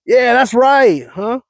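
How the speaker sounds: high, slow drawn-out "Yeah, that's right"; California "huh". Shown as a demonstration. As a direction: stretch it lazily, add a "huh". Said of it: "It's like".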